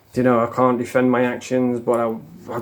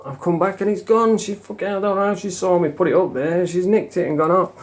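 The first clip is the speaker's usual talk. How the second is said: higher-pitched, animated disbelief; retold indignation; 6 semitones higher than usual. Telling how the lass took the hidden stash, indignant. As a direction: relive the outrage of being robbed, voice raised in pitch. Retelling outrage at a theft.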